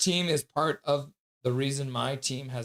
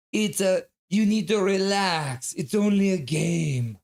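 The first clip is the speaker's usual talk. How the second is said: put-on Russian accent; 5 semitones higher, 3 dB louder than usual. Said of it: "your best Russian accent".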